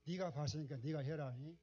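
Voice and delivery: God's words retold in a Jeolla dialect lilt, rising at the end. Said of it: "전라도 말로 한번 해볼게요".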